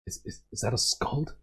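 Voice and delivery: hushed, wary whisper. Acted. Older villagers whispering suspiciously about the stranger. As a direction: whisper it nervously to a neighbour. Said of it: "they might start whispering amongst each other".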